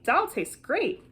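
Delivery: delighted. Acted. Kids delighted by the meal.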